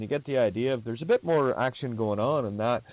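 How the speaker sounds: lightly imitated Belfast brogue; a touch of mock Belfast brogue. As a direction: slip briefly into a Belfast accent. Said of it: "they get the Belfast brogue".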